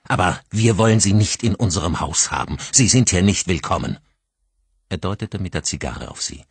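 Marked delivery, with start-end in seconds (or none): 0.1-4.0 louder, firm hostility; cold anger. Acted. Father sending the woman out of his house, coldly angry. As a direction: tell her she is not welcome. Grieving father throwing her out.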